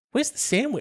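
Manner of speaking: retelling the question mid-laugh; laughing quote. Retold or imitated. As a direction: ask it while cracking up. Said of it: "the host's girlfriend asked".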